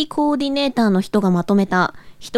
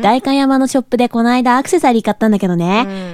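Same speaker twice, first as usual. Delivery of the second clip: japanese gyaru slang; 3 dB louder than usual. Acted. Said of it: "ギャルっぽく無理があるよね".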